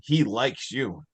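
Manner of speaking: slow, creepy retelling. Retold or imitated. Possessed girl pointing at Riley, slow and creepy. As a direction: draw it out ominously. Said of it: "it starts getting creepy".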